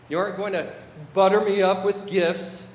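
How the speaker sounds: mild scolding as an offended God; a touch of exasperation; indignant refusal. Acted. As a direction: refuse the flattery, leaning on the words. Voices God rejecting gifts.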